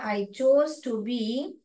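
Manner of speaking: slow, chose stressed; slow model reading. Shown as a demonstration. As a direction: read slowly for class. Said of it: "model reading". (धीरे पढ़ना)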